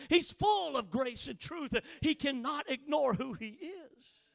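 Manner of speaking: insistent sermon cadence; forceful preaching. Real, not acted. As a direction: drive the point home to the congregation.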